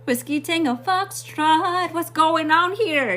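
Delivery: high, slow, mock-stunned exclaim; like seeing something otherworldly; shocked disbelief. Shocked inner voice, WTF.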